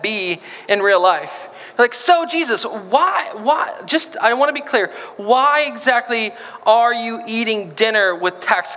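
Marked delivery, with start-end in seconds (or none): 1.9-8.8 mock frustrated demand, pitched up; pitched-up mock exasperation at Jesus; exasperated questioning. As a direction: badger him like an impatient follower.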